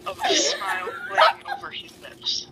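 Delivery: laughing through reading. Real, not acted. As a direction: read on while cracking up. Reader cracks up mid-sentence.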